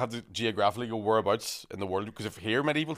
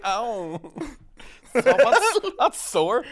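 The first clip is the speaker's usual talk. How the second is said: higher, laughing it out; 12 semitones higher, 7 dB louder, much slower than usual. Retold or imitated. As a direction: quote him while cracking up. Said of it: "He's like".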